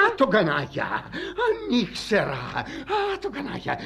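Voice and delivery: drawn-out, rising comic lament; wailing indignation. Acted. Betrayed husband cursing the unknown lover, wailing. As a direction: moan and curse the rival.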